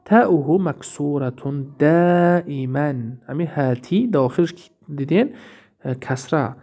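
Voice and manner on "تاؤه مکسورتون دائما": slow rule recitation. Shown as a demonstration. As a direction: read تاؤه مکسورتون دائما slowly like a rule. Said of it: "فعل امر میگه". (آهسته و شمرده قاعده را بخوان)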